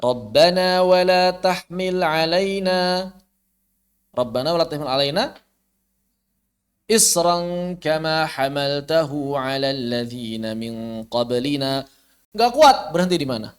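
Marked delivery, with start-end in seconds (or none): 0.0-11.8 slow melodic chanting; Quranic recitation. Shown as a demonstration. Teacher reciting the Sheikh's example verse slowly. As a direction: draw the verse out in tilawah.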